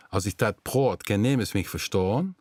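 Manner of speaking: "Als ich dat praat, kan niemand mich verstaan" spoken in Limburgs; Limburgs dialect. Shown as a demonstration. Host shows viewers his native dialect, plain Limburgs. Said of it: "that sounds like my native language".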